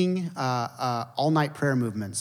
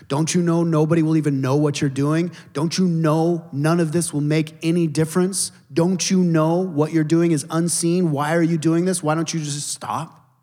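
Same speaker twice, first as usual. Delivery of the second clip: louder, hectoring prison guards; mocking guards; 2 semitones higher, 5 dB louder than usual. Prison guards badger the lone German man, loud and hectoring. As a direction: press him hard like jeering guards.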